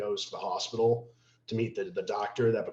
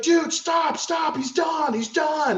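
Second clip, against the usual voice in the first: high, loud, urgent pleading; urgent plea to stop; 6 dB louder, slower than usual. Retold or imitated. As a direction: shout to pull someone off a fight. Friend pulling him off.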